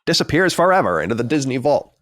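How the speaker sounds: put-on old-time radio announcer voice; hammy vintage newsreel read; 1940s newscaster. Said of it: "talking like a newscaster from the forties".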